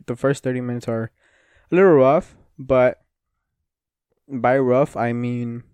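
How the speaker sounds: talking through held-back burps; burping after fizzy drink. Real, not acted. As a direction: burp stuck in the throat while speaking. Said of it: "sorry, I'm burping a lot".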